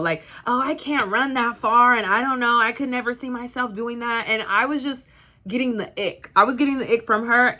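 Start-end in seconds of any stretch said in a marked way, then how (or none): 0.5-4.3 imitating reluctant girl. Runner imitating a guest refusing the marathon, lightly mocking self-doubt. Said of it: "mainly it was the girl".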